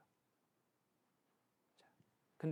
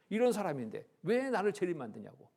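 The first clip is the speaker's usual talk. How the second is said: higher, louder offended protest; retold indignation; 5 semitones higher, 7 dB louder than usual. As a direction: act out a proud woman taking offence. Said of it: "막 역정을 내셔요". (억울해서 따지는 할머니 흉내)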